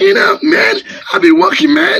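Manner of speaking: high, hammed-up imitation of a Westernised wife speaking English, laughing through it; mock the wife who comes back from abroad and only speaks English; mock foreign English. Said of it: "speak the way that they do am".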